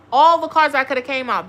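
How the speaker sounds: loud, incredulous over the cards; loud disbelief. Real, not acted. Tarot reader to viewer, loud disbelief. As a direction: throw it out loud, can't believe the card.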